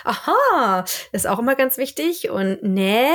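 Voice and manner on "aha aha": "Aha, aha" höher und gedehnt; schwedisches Aha. Shown as a demonstration. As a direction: das zustimmende schwedische "Aha, aha" vormachen. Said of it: "dieses Aha". ("Aha, aha" etwas höher, als beiläufige Zustimmung)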